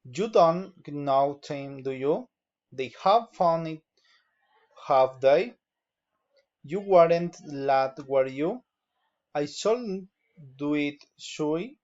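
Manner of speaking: tags "do you?" and "should I?" lifted at the end; statement first, then a rising "should I?"; measured demo, turning up on the closing tag like "do you?"; tag-question intonation. Shown as a demonstration. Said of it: "falling or raising intonation".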